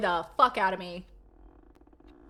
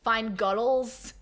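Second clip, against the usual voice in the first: slow imitated Scottish "guttles"; Scottish accent; 3 dB louder, slower than usual. Streamer quoting a lad from a concert, Scottish accent. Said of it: "I met a lad at a concert".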